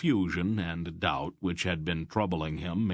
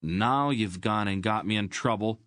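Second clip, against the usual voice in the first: boy's sulky complaint, lightly voiced; resentful; 3 semitones higher than usual. Boy muttering at his friend, lightly resentful. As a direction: grumble it at the friend who got him caught. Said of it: "Garion said resentfully".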